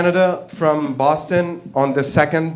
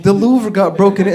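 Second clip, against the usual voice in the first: mock-frantic, raised pitch and volume; 4 semitones higher, 5 dB louder than usual. Wife running in with news of the Louvre, mock frantic. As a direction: imitate someone bursting in with alarming news. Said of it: "And she's so frantic".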